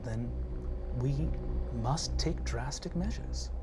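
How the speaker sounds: a lightly voiced aristocratic mother, half whispered; a hint of a disappointed noble mother; haughty mother. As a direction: speak down to your child with cold pride.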